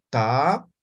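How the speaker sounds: Ta with a puff of breath; aspirated ta. Shown as a demonstration. Teacher shows aspirated Ta. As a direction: breathe out hard on the Ta.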